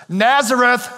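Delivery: high, acted exclamation of disbelief; skeptical exclamation. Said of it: "exclaimed Nathanael".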